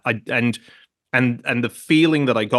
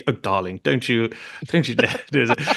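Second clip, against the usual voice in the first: put-on posh English accent. Teasing his sister's sudden Oxford English, light posh English accent. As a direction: playfully imitate the sister's new plummy English accent. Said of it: "she was immediately".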